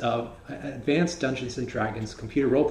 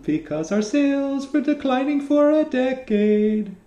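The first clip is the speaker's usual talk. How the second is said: trailer announcer voice; 8 semitones higher than usual. Pretend. Parodies trailer narrator.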